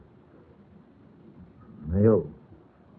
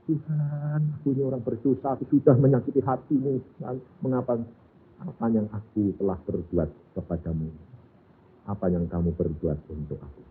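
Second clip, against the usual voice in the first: contrite prayer; 4 dB quieter than usual. Acted. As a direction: confess quietly as if near tears. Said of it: "Dia berkata".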